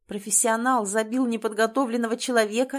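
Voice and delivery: plain reading voice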